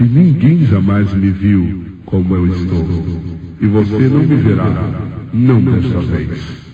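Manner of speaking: slow, low, solemn refusal; a hint of God's grave answer; lightly voiced divine voice. God refuses to show his face, slow and solemn. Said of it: "E ele disse".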